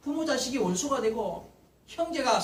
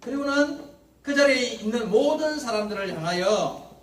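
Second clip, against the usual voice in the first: usual speaking voice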